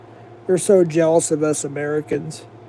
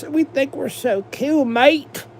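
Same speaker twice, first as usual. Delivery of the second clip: mocking British accent, pitched higher, cheeky "mate"; 5 semitones higher than usual. Streamer mocking British people to chat, in a higher mock British accent. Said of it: "They talk like this".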